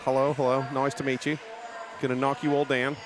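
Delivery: playful, badly faked Australian accent. Commentator imitating Australian skater Lethal, bad Australian accent. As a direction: have a rough go at an Australian accent. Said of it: "That's my bad Australian accent".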